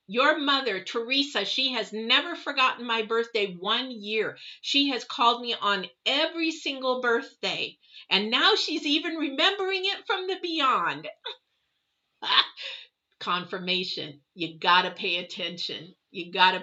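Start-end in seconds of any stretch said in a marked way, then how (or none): 0.1-11.1 lightly voiced aunt, rising higher toward the end; a hint of an old lady, building in pitch; touched old aunt. Aunt marveling the late sister still remembers her birthday. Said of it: "She goes".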